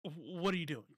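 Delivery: a quiet, baffled what-are-you-doing; incredulous mutter. Retold or imitated. Reacting to a doomed impeachment bid, quiet disbelief. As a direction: mutter it under your breath in disbelief. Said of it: "That's my, that's my initial instinct".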